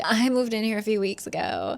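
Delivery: "I" leaned on hard, falling finish; stress on I. Retold or imitated. Eden throwing the woman's claim back, heavy stress on "I". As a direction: punch the opening "I" to counter the claim.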